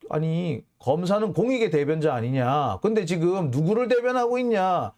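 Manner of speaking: mild mock indignation, building as it goes; retold angry challenge. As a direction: argue like an annoyed lawyer, lightly acted. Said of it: "이런 식으로 화를 내요". (화난 변호인을 흉내 내며 따지듯)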